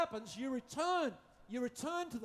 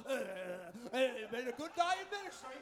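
mock contented. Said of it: "After a while".

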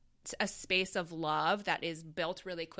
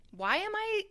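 puzzled self-question; 3 semitones higher than usual. Retold or imitated. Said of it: "And I was like".

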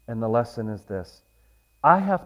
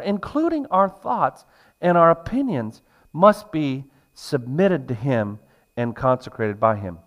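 emphatic, raised sermon delivery; preaching; 5 semitones higher, 5 dB louder than usual. Real, not acted. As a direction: drive each point home to the congregation. Preaches to the congregation.

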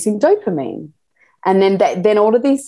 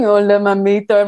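flirty greeting; 2 semitones higher, 3 dB louder than usual. Retold or imitated. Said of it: "he's giving".

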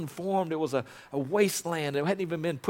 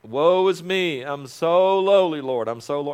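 mock self-pity; 2 semitones higher, 7 dB louder than usual. Pastor mocking how he was taught to pray, hammed-up self-pity. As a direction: parody a groveling prayer. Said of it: "that's how I was taught".

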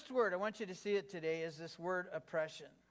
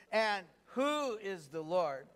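slow, deliberate read with "who" drawn out; read like you mean it; slower than usual. Shown as a demonstration. Preacher leading the congregation in Pharaoh's line, meaningful slow reading. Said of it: "read it like you mean it".

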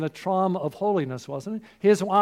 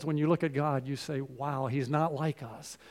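hushed awe; 5 semitones lower, 5 dB quieter than usual. Acted. Awed whisper of a worshipper.

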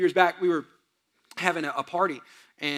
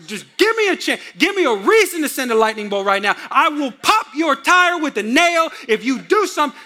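vengeful God; 3 dB louder than usual. Retold or imitated. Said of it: "He's, like, just waiting for you to sin".

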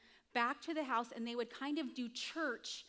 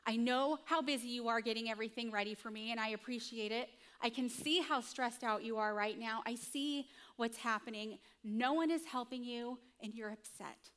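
tender. Retold or imitated. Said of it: "it means".

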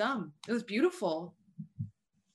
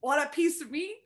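put-on Boston accent; 6 semitones higher, 5 dB quieter than usual. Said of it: "your fake Boston accent".

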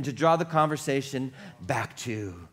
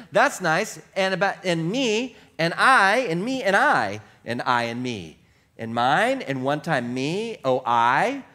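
mock self-centred chatter; 3 semitones higher, 3 dB louder than usual. Mocking self-centred listener.

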